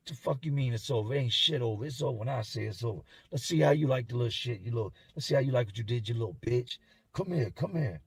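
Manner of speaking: fast, menacing retold threat; mock menace. Inmate refusing to end a fight, mock menace. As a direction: imitate an aggressor, rushing the words.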